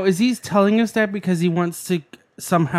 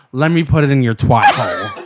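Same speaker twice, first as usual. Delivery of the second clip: lower, mocking quote of a man's come-on; mock macho man; 4 semitones lower than usual. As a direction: imitate a guy's line in disbelief. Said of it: "no man would ever say".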